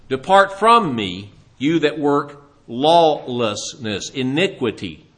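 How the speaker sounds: slow, measured sentence from a judge; grave, slow pronouncement; solemn judgment. Acted. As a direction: draw out each word of the condemnation. Jesus pronouncing judgment on sinners.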